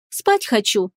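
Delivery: showy yawn through the words. Acted. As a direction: yawn it out on purpose. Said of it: "зевнула демонстративно".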